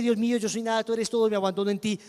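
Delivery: desperate prayer against the mocking spirit; fervent prayer. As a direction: cry out to God for strength. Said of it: "Y yo empecé".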